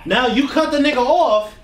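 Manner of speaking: loud and high, laughing out the punchline; laughing shout. Real, not acted. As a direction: crack up while yelling. Punchline of the backfire story.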